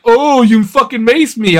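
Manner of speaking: high, loud, drawn-out indignation; retold outrage. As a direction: re-enact the shock of being sprayed. Retells outrage at being maced.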